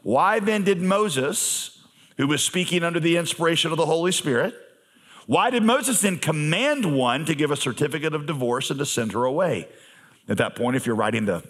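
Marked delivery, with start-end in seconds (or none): 0.0-9.7 voicing the Pharisees, raised and pushy; Whoa, hold on, catch Jesus out; challenging Pharisees. Pharisees challenging Jesus, raised pushy voice. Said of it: "They said to him".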